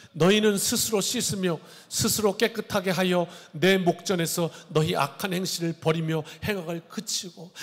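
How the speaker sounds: formal, measured Bible reading voice; solemn scripture reading. Acted. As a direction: read it out like holy writ from the pulpit. Reads scripture aloud.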